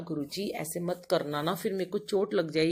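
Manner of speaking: ordinary talk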